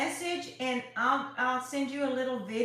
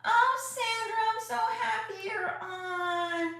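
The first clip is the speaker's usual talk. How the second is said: overjoyed cry; 10 semitones higher than usual. Real, not acted. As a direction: cry out with joy at a missed friend. Long-missed viewer joins.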